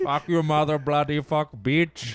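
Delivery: loud mock curse through a laugh; laughing mock yell. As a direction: shout it while cracking up. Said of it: "yelling at each other".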